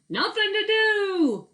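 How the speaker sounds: high, slow echoing call; far-off echo repeating the holler. Acted. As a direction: throw it back like an echo. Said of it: "an echo called back".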